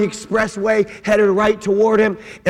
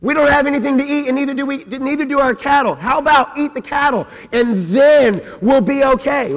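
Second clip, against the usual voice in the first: higher, whiny complaint; grumbling Israelites; 3 semitones higher than usual. Acted. Hungry Israelites complain in the wilderness, whining. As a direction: gripe about food like spoiled children. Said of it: "they start grumbling, complaining".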